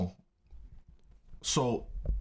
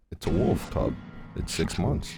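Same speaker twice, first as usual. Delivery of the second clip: deadpan wolf owner; 4 semitones lower than usual. Retold or imitated. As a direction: imitate the stranger, low and hushed. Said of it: "looks straight at her and goes".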